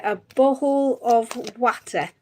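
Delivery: "bottle of water" drawn out slowly in a northeast accent; slow northeastern "bottle of water"; own regional pronunciation. Shown as a demonstration. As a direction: show your Durham way of saying "bottle of water", slowly. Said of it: "I say".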